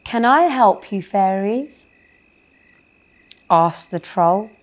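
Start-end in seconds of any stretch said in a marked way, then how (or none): 0.0-1.9 polite. Acted. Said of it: "Most politely he spoke".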